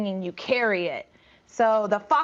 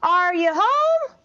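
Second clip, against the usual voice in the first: slow, higher call through a door; 7 semitones higher, 4 dB louder, slower than usual. Acted. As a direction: call to someone inside, slowly. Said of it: "someone yelled outside".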